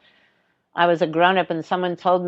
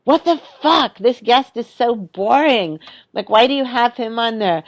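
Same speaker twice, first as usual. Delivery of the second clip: retold rant; 4 semitones higher than usual. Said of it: "I got so mad. I was like".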